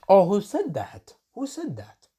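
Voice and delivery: high, squawky pretend bird asking; a hint of a cartoon bird; mock bird voice. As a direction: play a bird butting in. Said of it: "that was a bird saying it".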